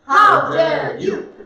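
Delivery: slow, high, loud mock affront; acted outrage. Shown as a demonstration. Student echoes the teacher's word play, loud mock outrage. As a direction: draw it out in play shock.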